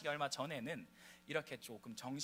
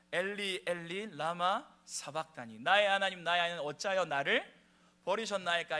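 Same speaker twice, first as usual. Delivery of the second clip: louder, anguished cry of the psalm; Jesus' cry from the cross; 4 semitones higher, 8 dB louder than usual. Acted. Pastor quotes Jesus on the cross, loud anguished cry. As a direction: cry it out as if forsaken. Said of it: "왜요?".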